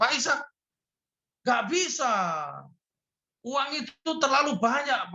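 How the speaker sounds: lifted, pleading voice of the man; imitating the congregant. (menirukan jemaat yang memohon dengan suara tinggi)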